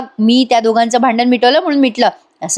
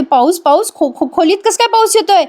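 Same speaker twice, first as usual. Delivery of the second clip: much higher, stammering disbelief; baffled stammer; 8 semitones higher than usual. Retold or imitated. Avni finds rain inside her room, mock stammering shock. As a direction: stumble over the words in mock shock.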